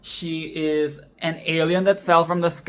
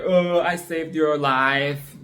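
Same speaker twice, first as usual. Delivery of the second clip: mocking annoying boy; 2 semitones lower, slower than usual. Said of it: "bubbly and springy and annoying and shrill".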